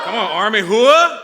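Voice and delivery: rousing, high, loud battle cry; hoorah shout. Real, not acted. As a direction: pump up the troops with a yell. Rallying Army crowd, call-and-response.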